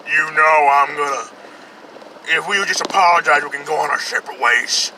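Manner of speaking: put-on menacing Southern accent, growing to a shout; fake Southern accent. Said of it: "fake southern accent that's so clearly fake".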